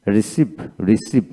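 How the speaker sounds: রিসিভ as two clear syllables, ri-siv; teacher demonstrating how রিসিভ is said; model pronunciation. Shown as a demonstration. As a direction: say রিসিভ carefully, then repeat it. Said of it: "এইভাবে উচ্চারিত হয়".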